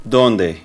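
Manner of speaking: "Dónde?" said short with a falling end; Spanish question word. Shown as a demonstration. Teacher modelling how to ask where in Spanish. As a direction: clip "Dónde?" and let it drop. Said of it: "follow it up with this word".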